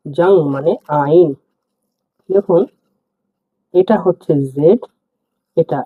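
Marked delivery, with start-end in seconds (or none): 0.1-1.3 জাং মানে আইন said slower, word by word; slow teacher repeat. Shown as a demonstration. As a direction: spell it out slowly for the class.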